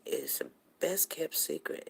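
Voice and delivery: hushed whisper, like sharing a secret; conspiratorial whisper to the camera. Real, not acted. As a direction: lean in and whisper it. Confiding a secret to viewers.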